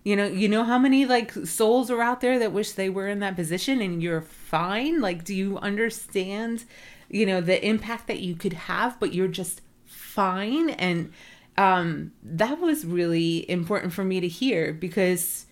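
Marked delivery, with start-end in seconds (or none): 0.0-10.7 incredulous challenge. Retold or imitated. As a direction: push back on the word fine, stunned. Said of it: "And she's like".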